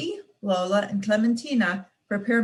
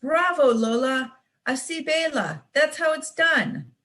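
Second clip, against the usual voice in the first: cheering bravo; 5 semitones higher than usual. Acted. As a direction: cheer the little dancer on. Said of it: "Everyone is cheering".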